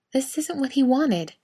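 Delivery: smooth it over as the peacemaking wife; lightly voiced wife. A narrator's reading.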